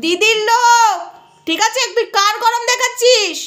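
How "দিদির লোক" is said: proudly declared loudly. Real, not acted. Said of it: "গলা ফাটিয়ে বললাম".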